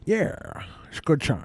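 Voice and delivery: soft whispered aside; whispering. Real, not acted. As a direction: whisper it behind a hand.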